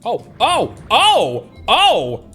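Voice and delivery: loud, high startled ohs; startled cries. Real, not acted. Gamer caught off guard in the game, startled yelps. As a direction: yelp "oh" in rising alarm. Startled alarm during gameplay.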